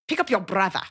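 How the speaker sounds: shorter South African repeat of the order; South African parent repeating the chore order; South African accent. Retold or imitated. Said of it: "South African accent imitating my friend's parents".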